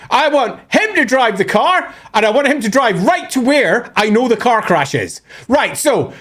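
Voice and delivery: high-pitched hammed-up frantic back-seat driving; mock frantic directions. Lilith steering Teclis toward the crash, high mock panic. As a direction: yell directions at a hapless driver, hammed-up.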